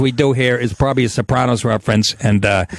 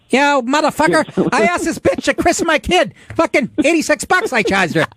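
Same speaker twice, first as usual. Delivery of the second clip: higher hammed-up gangster voice; mobster rant; 12 semitones higher than usual. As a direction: play the offended wiseguy.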